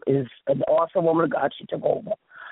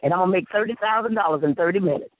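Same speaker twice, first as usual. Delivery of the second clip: higher, brisk boastful quote; quoting pastor; 4 semitones higher, faster than usual. Retold or imitated. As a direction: brag like a country pastor. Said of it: "He said".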